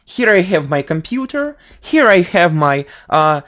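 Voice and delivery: stilted Russian schoolroom English, reciting phrases; Russian school English. Shown as a demonstration. Demonstrating the third accent, Russian school English. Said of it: "with this, uh, school English".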